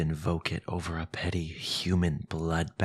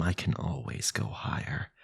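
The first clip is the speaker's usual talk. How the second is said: menacing whisper; 3 semitones lower, 6 dB quieter than usual. Acted. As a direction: drop to a threatening whisper. Villain threatening rival.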